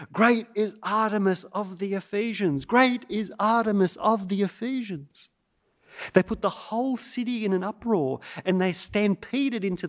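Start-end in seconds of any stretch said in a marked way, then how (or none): 0.1-5.3 restrained mob chant, raised in pitch; mild mock yell. Preacher quotes the Ephesus mob yelling, a restrained mock chant. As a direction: recite the crowd's yell without really shouting. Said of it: "They ran into the streets yelling".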